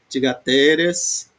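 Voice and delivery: Tigateres slowly, with a long stressed TE; stress on penultimate. Shown as a demonstration. Teacher proving it is not antepenultimate, slow penultimate stress on Tigateres. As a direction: stretch and hit the TE in Tigateres. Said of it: "tá na penúltima".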